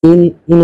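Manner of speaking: ইন said as a short clear "in", repeated twice; teacher stresses ইন as the alkene ending; pronunciation demo. Shown as a demonstration. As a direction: model ইন crisply for the class. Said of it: "উচ্চারণটা কি হইতেছে?".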